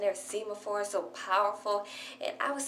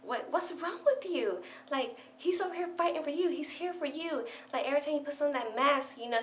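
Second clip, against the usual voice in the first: higher voice, indignant and pleading; lightly voiced scolding friend, pitched up; voicing Nell scolding; 4 semitones higher than usual. Nell scolds Orihime for not cheering Ichigo, higher indignant voice. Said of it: "and she's, like, had, like".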